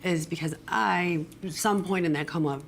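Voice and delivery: raspy, damaged voice; hoarse smoker's rasp, real. Real, not acted. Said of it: "that's why my voice sounds the way it does".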